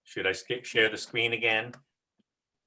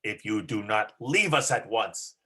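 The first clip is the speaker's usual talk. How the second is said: loud, threatening ogre voice; menacing villain line; 3 dB louder than usual. Shown as a demonstration. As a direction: boom it out like a demon. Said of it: "you wanna try that now".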